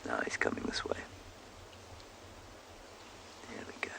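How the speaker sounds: very soft, low whisper; real hushed whisper. Real, not acted. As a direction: whisper so the approaching animal isn't disturbed. Elephant approaching close by.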